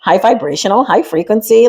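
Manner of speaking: ordinary talk, nothing marked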